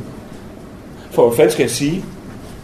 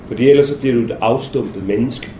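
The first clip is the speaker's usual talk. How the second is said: earnest captain; 5 semitones lower, 4 dB quieter than usual. Retold or imitated. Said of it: "og så sagde han".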